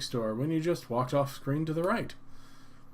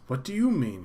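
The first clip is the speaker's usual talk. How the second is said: female clerk; 6 dB louder than usual. Acted. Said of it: "she responds".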